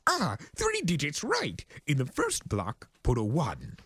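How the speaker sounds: high excited realization; sudden eureka. Acted. Discord solving the puzzle, high excited. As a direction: jump up high with the idea.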